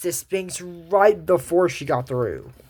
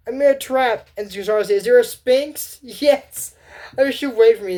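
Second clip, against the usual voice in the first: put-on high child voice; 8 semitones higher, 3 dB louder than usual.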